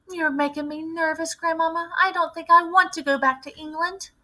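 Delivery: put-on high, young voice, uneasy; a boy starting to get scared; nervous boy. A narrator's reading. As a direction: grandson telling grandmother he is frightened.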